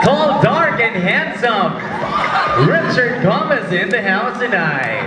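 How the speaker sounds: hammed-up show announcer introduction; mock announcer. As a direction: announce him grandly, stretching the name out. Host jokingly announces a contestant. (pabirong boses ng announcer)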